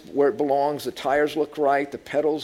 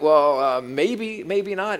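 doubtful hedging; slower than usual. Acted. Crowd hesitates at the dare.

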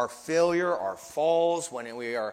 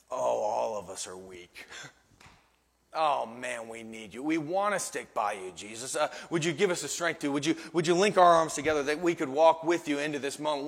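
weak. Acted. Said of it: "Peter should have said".

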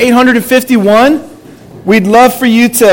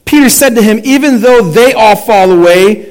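measured public Bible reading with pauses; scripture reading. A narrator's reading. Pastor reading Mark to the congregation, measured scripture reading. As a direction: read it out deliberately, phrase by phrase.

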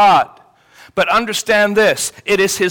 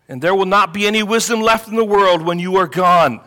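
mildly sarcastic mock assurance. Preacher as Job belittling his friends' wisdom, mildly sarcastic. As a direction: feign conviction with a touch of sarcasm. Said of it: "in a sarcastic tone, he's saying".

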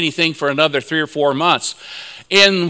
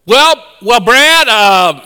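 laughing reply; 7 semitones higher, 4 dB louder than usual. Retold or imitated. Laughing at Brad's question.

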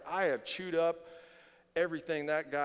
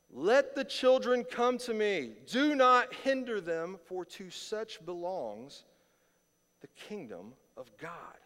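louder, higher and slow, fading at the end; proclaimed; 5 semitones higher, 6 dB louder, slower than usual. Shown as a demonstration. Pastor reading the verse aloud to his church, loud and slow. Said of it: "Let me read it to you again".

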